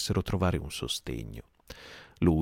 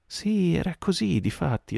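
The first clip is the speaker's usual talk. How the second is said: high, loud eager exclamation; exclaimed; 13 semitones higher, 4 dB louder than usual. A narrator's reading. Morgan rising to his knees, high excited exclamation. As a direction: burst out in agreement. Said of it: "esclamò Morgan".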